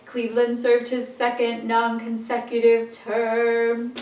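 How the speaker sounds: flat monotone line. Shown as a demonstration. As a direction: say it in one flat pitch. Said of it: "in kind of a monotone way".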